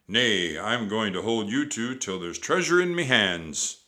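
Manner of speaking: loud pirate threat; Captain Bones. A narrator's reading. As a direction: menace them as pirate boss.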